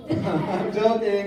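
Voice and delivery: laughing it off, slowly. Real, not acted. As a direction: laugh through the words. Laughing after teasing.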